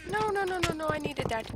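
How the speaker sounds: high, loud protest; distressed no. Real, not acted. Gamer losing loot, crying out in dismay. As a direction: cry out at the loss.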